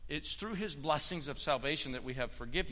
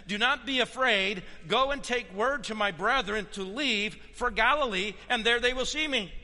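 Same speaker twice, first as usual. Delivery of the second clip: raised, louder pulpit voice; emphatic preaching; 6 semitones higher, 5 dB louder than usual. Acted. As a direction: proclaim the quote to the congregation. Preaches Jesus' words to the women.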